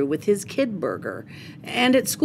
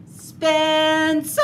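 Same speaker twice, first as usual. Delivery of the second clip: mom yelling; 9 semitones higher than usual. Acted. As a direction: call him sharply from the stairs. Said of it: "she yelled on her way upstairs".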